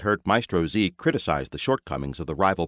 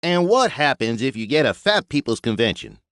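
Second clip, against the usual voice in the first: drawled; 6 semitones higher, 4 dB louder than usual. Acted. Buster teasing the maestro, drawling. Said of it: "drawled Buster".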